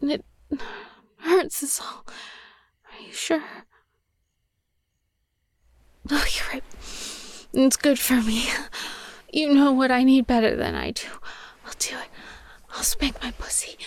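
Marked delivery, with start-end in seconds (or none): 2.9-13.8 hushed, obedient whisper. Acted. Agreeing to her partner's instruction, whispered.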